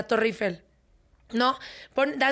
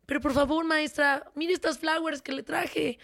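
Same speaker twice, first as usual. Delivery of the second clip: put-on boy begging; 3 semitones higher than usual. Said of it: "él le dice".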